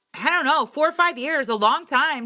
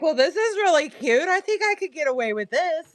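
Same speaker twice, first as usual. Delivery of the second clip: imitating wife; 6 semitones higher than usual. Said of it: "she's like".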